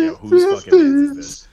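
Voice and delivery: loud, high, fast outburst; retold outburst. Telling friends about the DM, loud high outburst. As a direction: blurt it out in disbelief. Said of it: "I was just like".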